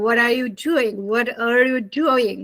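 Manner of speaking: American linked what-are, flapped t; American pronunciation of what are you doing; American accent. Shown as a demonstration. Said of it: "When you are speaking to Americans".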